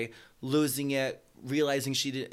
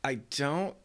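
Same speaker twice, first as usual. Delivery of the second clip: cheerleader movie line; slower than usual. Acted. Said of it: "What is the line they say".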